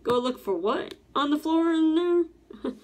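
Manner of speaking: put-on a girl who can't believe what she's asked to do; mock shocked "go look for what?", climbing high; incredulous girl. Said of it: "She was probably like".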